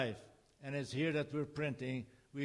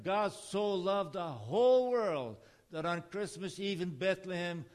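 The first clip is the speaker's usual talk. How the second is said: retold open-air preaching. Preacher retelling his Christmas sermon to the crowd by Lenin's tomb, raised preaching voice. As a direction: proclaim it like a street preacher. Preaching aloud on Red Square.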